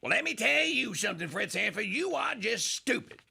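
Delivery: lightly voiced scolding aunt; a hint of an indignant aunt; mock Aunt Esther. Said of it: "she calls Fred Sanford a name".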